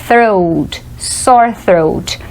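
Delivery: throat said carefully, TH then R; TH plus R. Shown as a demonstration. Teacher practises tongue placement, throat with a careful TH-R. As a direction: model "thr" in throat, then sore throat. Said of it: "fazer o som direitinho com a língua".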